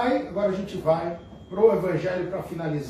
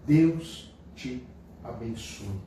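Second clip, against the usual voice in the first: gentle blessing; 6 semitones lower, much slower than usual. Shown as a demonstration. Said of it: "essa é a ideia".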